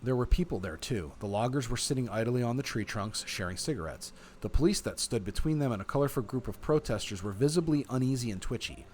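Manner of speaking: measured, expressive read-aloud; story narration. A narrator's reading. Player reading the game's story to viewers, story narration. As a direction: narrate it like an audiobook.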